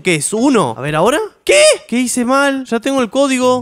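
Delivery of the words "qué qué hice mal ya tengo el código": high-pitched bewildered protest; baffled, slightly angry. Real, not acted. Player whose code was rejected, baffled and annoyed. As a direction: protest the failure in real confusion. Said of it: "completamente desconcertado y enojado un".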